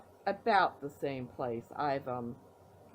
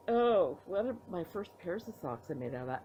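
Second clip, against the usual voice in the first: talking through a yawn; words stretched by a yawn. Real, not acted. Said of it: "Excuse me for yawning".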